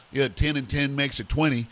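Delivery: lightly imitated American Southern accent; mock Southern accent, casually done. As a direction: put on a touch of a Southern US accent. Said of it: "in the south they were like".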